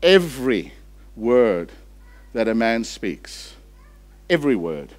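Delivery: slow, word by word with pauses; slow reading. Shown as a demonstration. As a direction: let each word land slowly. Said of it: "You want to read that slowly?".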